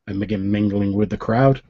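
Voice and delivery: usual speaking voice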